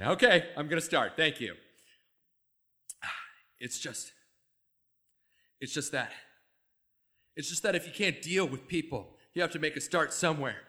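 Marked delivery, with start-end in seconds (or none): 3.6-10.6 Jerry monologue. Acted. Starts the Zoo Story monologue.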